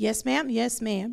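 normal talking voice

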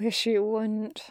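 barely audible, very soft. Narrator reading Crowley's reply to Aziraphale in the darkness, said very softly. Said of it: "he said so softly that Aziraphale barely heard him".

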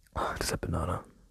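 soft, hushed whisper under the breath.

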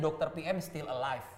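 ordinary talk

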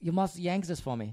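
heavy put-on German accent. Imagining what a German man in two arm casts would say: put-on German accent. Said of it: "Is he German?".

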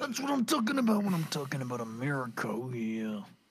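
swooping, macho wrestling promo voice. Cheering a strong attack roll: Macho Man voice. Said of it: "this macho man voice".

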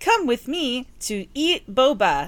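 high, slow text-to-speech AI voice. Complaining about ai voiceovers, the speaker imitates one in an ai voiceover voice. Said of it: "the AI voice over".

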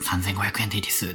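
quiet, small voice. Retelling what was said at checkout, as a quiet aside. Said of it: "また小声で".

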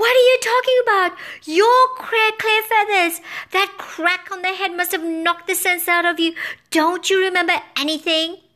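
piercing, shrill, high-pitched screech. Harper springs out of the bag and answers the confused bird: screeching.

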